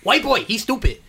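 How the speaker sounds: mock Asian accent. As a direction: put on a comic Asian accent. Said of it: "I just wanna do the Asian voice".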